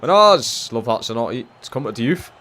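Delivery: loud, high yells at the screen; excited shouting. Real, not acted. Gamer shouting at his striker to shoot, loud and high. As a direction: urge the player to shoot, full voice. Urging shot during match.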